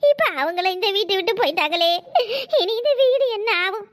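grieving with sobbing catches; mourning through tears; tearful lament. Acted. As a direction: lament the loss, drawing out the phrase ends. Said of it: "அழாதக்கா, அழாத".

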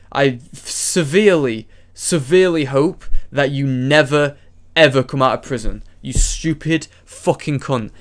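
real, emphatic angry rant; seething, forceful condemnation. Real, not acted. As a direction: spit out the curse with heavy emphasis. Angry rant aimed at Chris.

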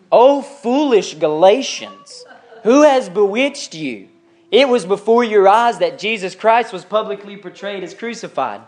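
slow, indignant scripture reading; upset, exasperated. Acted. Paul rebuking the foolish Galatians, indignant and exasperated. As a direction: scold them in drawn-out, emphatic phrases. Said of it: "That's the tone of that passage".

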